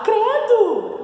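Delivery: high, loud shriek of fright; frightened. Shown as a demonstration. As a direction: cry out as if horrified. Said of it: "se eu tô com medo".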